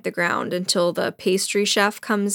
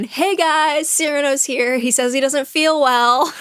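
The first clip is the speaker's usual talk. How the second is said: calling to everyone; 6 semitones higher than usual. Retold or imitated. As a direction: announce it like calling out to a crowd. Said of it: "he yells to everyone".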